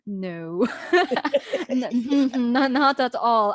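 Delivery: amused, giggly protest; laughing denial. Retold or imitated. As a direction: laugh through a quick disclaimer. Laughing denial of others' praise.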